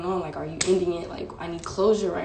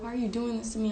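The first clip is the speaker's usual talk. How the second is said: raised-pitch plea at ordinary volume; retold freak-out; 4 semitones higher, faster than usual. Retelling how she confronted her boyfriend, higher pleading protest. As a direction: mildly act out a distraught question. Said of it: "went crazy".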